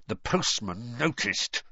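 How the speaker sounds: slow words through clenched teeth; holding back a shout, teeth clenched; through gritted teeth. Acted. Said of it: "he said through gritted teeth".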